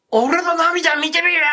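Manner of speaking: mother seized by her dead son at the wake, slow high cry; dead son's voice. Retold or imitated. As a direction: cry it out as if a dead young man speaks through you. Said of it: "男の声で".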